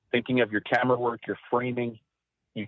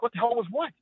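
much higher, bewildered question back; baffled reply; 12 semitones higher than usual. Retold or imitated. Cameraman answering his boss, high and baffled. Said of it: "And I'm like".

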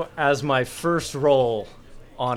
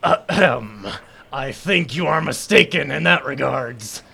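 pompous formal correction building to a louder reveal; grand announcement; 3 semitones higher, 4 dB louder than usual. Acted. Hal introduces V to the rival, grandly. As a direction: present a champion with ceremony.

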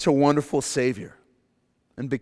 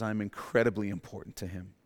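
softer sincere statement; 4 semitones lower, 6 dB quieter than usual. Shown as a demonstration. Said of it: "The blood of Jesus says".

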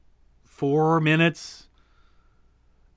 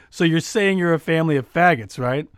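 forceful; 4 dB louder than usual. Retold or imitated. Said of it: "I say very forcefully".

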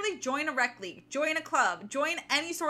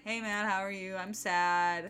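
low, glum mock-sad delivery; sad Stefan; 5 semitones lower, 3 dB quieter than usual. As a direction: imitate a mopey guy greeting his friend. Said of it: "talking to sad Stefan".

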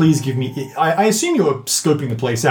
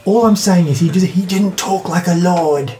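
goblin voice; 3 semitones higher than usual. Acted. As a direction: argue like a stubborn goblin.

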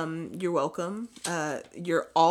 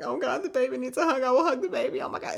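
put-on high cooing baby talk, much higher; cooing over baby; 6 semitones higher, faster than usual. To a sad little girl, high cooing baby talk. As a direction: coo at the crying little girl. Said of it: "And I was like".

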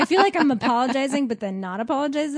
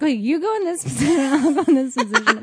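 laughing; 3 semitones higher, 4 dB louder than usual. Acted. Voices players while giggling.

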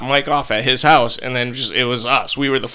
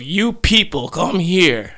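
higher-pitched imitation of a man summoning people; lightly voiced, high-pitched call over; imitated summons; 4 semitones higher, slower than usual. Retelling guy summoning the family.

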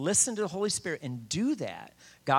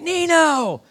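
high, loud holler of a name; calling out; 13 dB louder than usual. Retold or imitated. Old buddy hailing him outside the bar, loud call.

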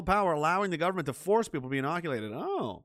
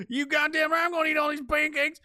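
mock proud Kenney; 12 semitones higher, 3 dB louder than usual. Kenney voice answers in skit.

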